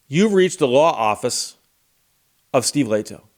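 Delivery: lightly voiced office phone greeting; measured, matter-of-fact recorded greeting; pleasant receptionist. Office voicemail greeting a caller, lightly imitated pleasant receptionist. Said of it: "very pleasant woman's voice comes on".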